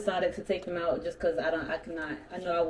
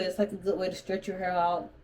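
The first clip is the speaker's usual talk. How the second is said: talking with retainers in; words slurred round a retainer; wearing a retainer; 3 dB quieter than usual. Real, not acted. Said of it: "I'm talking where I have my retainers in".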